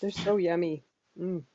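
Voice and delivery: talking around a candy; candy in the mouth; mouth full. Real, not acted. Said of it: "I had to put that candy in my mouth".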